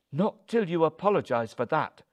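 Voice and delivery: loud, high, indignant; affronted, forceful order; angry demand. A narrator's reading. Wife demands apology.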